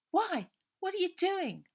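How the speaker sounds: put-on high, loud girl's voice, apologetic and urgent; a worried girl pouring out an apology; anxious young girl. A narrator's reading. Ida's voice.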